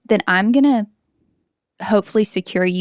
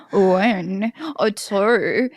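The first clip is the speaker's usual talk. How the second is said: supermodel voice; much slower than usual. Retold or imitated. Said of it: "So he's like".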